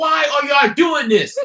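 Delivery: very high, loud shriek. Retelling watching a show at home: retelling screaming at the TV. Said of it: "I was screaming at the T V like".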